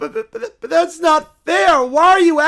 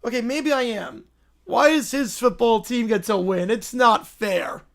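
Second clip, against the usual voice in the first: slow, drawn-out whiny wail; hammed-up tearful sulk; mock crying; 5 dB louder, slower than usual. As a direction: whine as if about to burst into tears. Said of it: "I'm gonna cry".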